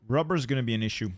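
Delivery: talking with mouth full. Real, not acted. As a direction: say it around a mouthful. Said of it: "I'm talking with my mouth full".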